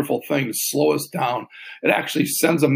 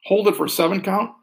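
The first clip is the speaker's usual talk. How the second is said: calm, paced counting with long pauses; slow breath counting. Shown as a demonstration. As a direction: guide the breath gently and slowly. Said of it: "I'll talk us through one more".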